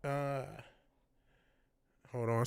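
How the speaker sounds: through a face mask. Real, not acted. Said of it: "trying to read through the mask".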